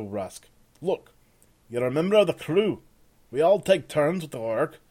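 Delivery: loud, gruff-edged sergeant giving orders; bossy sergeant. Acted. Sergeant Peter telling Rusk the rules, bossy. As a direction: bark it like the camp boss.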